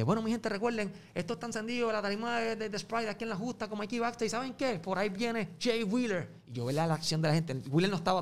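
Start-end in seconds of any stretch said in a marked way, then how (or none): 0.0-6.3 MC hype announcement. Retold or imitated. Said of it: "yo recuerdo que dije".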